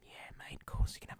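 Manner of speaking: put-on whispered, half-hearted Australian accent; attempted Australian accent. Streamer voicing Dimitri's reply, badly faked Australian accent. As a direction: try an Aussie accent under your breath, then give up. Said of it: "I can't do his fucking accent".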